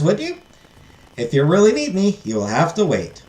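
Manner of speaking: put-on fairy godmother explaining in a Southern accent; lilting Southern-accented fairy. Fairy warning the heiress it will not be easy, Southern accent. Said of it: "give her a southern accent".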